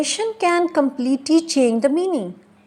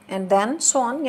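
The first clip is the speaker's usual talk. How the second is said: slow "and then so on", left hanging upward; rising continuation; much slower than usual. Shown as a demonstration. Teacher showing that talk continues, rising tone. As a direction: keep it open, lift "on".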